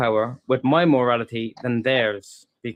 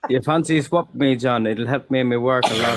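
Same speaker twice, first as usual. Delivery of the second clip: put-on Irish accent. Joking for the panel in an Irish accent. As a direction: say it in an Irish lilt. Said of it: "the Irish accent".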